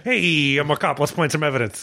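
lightly voiced generic cop; a hint of a TV cop. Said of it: "That's my generic cop voice".

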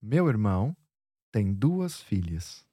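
"duas" stressed, falling close; a flowing tune for her to copy; teacher's musical read of "tem duas filhas"; model intonation. Shown as a demonstration. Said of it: "let's hear you say it once more".

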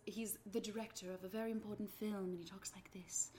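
hushed, quick, confidential; quiet confiding aside. Retold or imitated. Director confiding to the actor, hushed and quick. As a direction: lean in and half-whisper it. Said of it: "Ray Fiennes goes".

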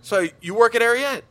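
high, loud mock British question; lightly voiced intense Englishwoman asking; British woman voice. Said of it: "she was like".

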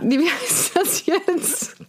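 gedehnt ratlos. Real, not acted. Sucht verzweifelt nach Wort.

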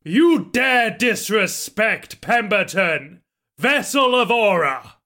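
slow, grand booming declaration; magically amplified voice. Acted. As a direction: proclaim it like a demigod. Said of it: "my booming voice".

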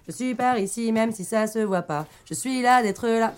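slam poetry. Acted. Rehearses the slam again.

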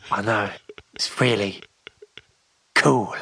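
breathy whispered aside. Acted. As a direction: drop into a whisper. Jokey whisper after trailer remark.

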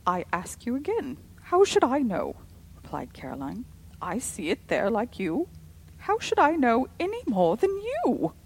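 loud, high exasperated retort; irritated. A narrator's reading. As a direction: snap back in exasperation. Caroline snapping back.

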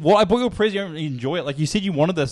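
retold angry dad. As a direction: imitate an offended father scolding. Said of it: "he got angry at me".

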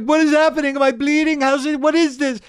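high, loud terrified squeal; frantic mock terror; panicked. Tripping kid thinking he is bleeding, high squeal.

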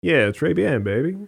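lightly voiced suave cool guy; cool Shaft type. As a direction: slip in the French like a smooth operator. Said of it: "cool Shaft-like character".

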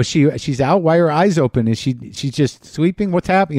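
frantic questions to the vet as the cat goes limp; panicked questions. Retold or imitated. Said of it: "I was kinda panicking and crying".

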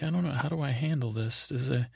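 lightly acted helpless dithering; mock helplessness. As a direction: imitate a man at a loss with a crying sister. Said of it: "still trying to be like".

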